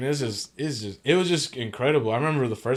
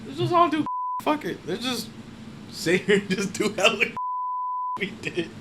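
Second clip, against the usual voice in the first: laughing friend; 11 semitones higher, 4 dB quieter than usual. Retold or imitated. Friend voiced egging on drugs.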